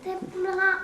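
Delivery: bleating goat voice. Acted. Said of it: "tu vas nous faire la chèvre". (voix de chèvre bêlante)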